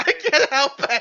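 words bursting through loud, high-pitched laughter. Answering another speaker who says to stop laughing, laughing while talking. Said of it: "Stop laughing".

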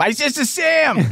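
voice pitched way up high. Asked to say the sitcom title in the Auntie Jill voice. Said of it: "Say it in the Auntie Jill voice".

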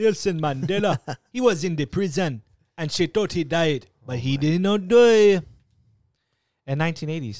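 slight hint of a Jamaican accent. Explaining a false memory about Nelson Mandela to the group, slight Jamaican accent. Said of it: "that was like almost going Jamaican on us".

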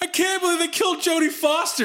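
loud, very high-pitched wisecracking tone. Walking out of a movie, showing off to a friend; retelling talking loudly. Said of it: "I didn't realize I was talking that loud".

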